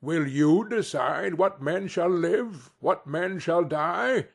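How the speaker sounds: a hint of a stern ghost scolding; stern rebuke. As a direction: lecture him gravely on his cruelty. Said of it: "the ghost's rebuke".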